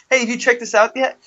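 sing-song pitch to a stranger; sales pitch voice. Retold or imitated. Canvasser repeating his line to a passerby, high and chipper. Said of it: "That was my".

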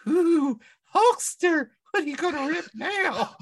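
high, loud teasing call-out; mock taunt. Taunting the Hulkster in character.

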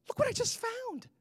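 high-pitched imitation of wife; wife's excited find. Wife shows husband the money she found, high excited imitation. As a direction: mimic her high, sing-out announcement.

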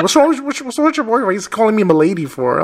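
high laughing imitation of a puzzled roommate; laughing mock roommate. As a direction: play the confused roommate while laughing.

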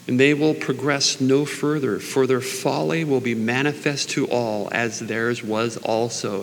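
slow, measured Bible reading; scripture reading. Acted. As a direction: read each phrase deliberately, savoring it. Reads scripture aloud slowly.

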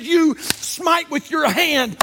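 high, slow, emphatic preaching; forceful command. Acted. God telling Ezekiel how to preach, forceful command. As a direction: drive each word home slowly. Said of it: "No, he said".

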